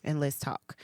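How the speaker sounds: soft, hushed, calm invitation; gentle voice of God. Retold or imitated. Telling herself what God said, softly and tenderly. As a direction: speak it like a gentle loving voice. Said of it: "God was telling me".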